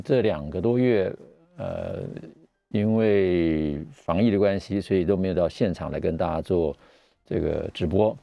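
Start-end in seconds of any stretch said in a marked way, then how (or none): 6.0-8.2 muffled behind a mask; talking through a mask; through a face mask. Real, not acted. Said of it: "那戴着口罩讲话".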